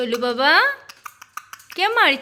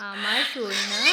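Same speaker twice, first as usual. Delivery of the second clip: whispered pet name, breathy and close; tender whisper; 6 semitones lower, slower than usual. Real, not acted. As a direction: whisper it lovingly to the bird. Cooing to her pet bird.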